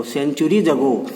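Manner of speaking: centuries ago drawn out slowly with weight on centuries; teacher showing the stressed phrase centuries ago. Shown as a demonstration. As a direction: lean on centuries ago, slow and deliberate. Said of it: "इस शब्द पर उसने stress दिया".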